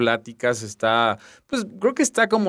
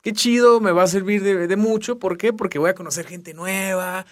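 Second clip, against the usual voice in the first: alegre y más agudo, ilusionado; excited; 4 semitones higher than usual. Retold or imitated. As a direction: como quien espera un campamento divertido. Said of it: "un retiro que dije". (con ilusión, voz alegre y aguda)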